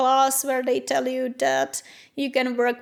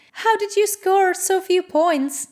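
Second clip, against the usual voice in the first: higher, slow, puzzled teacher voice; imitating the German teacher; 6 semitones higher, slower than usual. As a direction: play the teacher, baffled and drawn out. Teacher questions her low test score.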